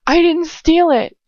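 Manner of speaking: slow, high, loud insistence; desperate denial. Acted.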